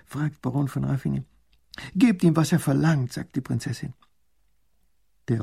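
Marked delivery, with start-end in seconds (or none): 1.9-3.1 higher, louder princess; young princess commanding. Acted. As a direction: give the order firmly. Princess orders payment.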